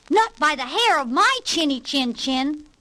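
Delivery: defiant pig. Acted. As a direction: refuse the disguised wolf, lightly voiced. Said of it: "said the second little pig".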